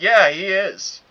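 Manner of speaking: loud, high emphatic agreement; retold shouted agreement. Coworker agreeing from nearby, retold shout. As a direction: call back in full agreement, imitated.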